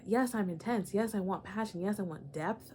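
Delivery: ordinary delivery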